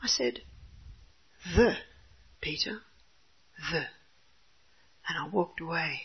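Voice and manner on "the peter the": very soft, held-back correction; calm restraint. Retold or imitated. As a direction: keep your temper and say it gently. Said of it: "I took a deep breath".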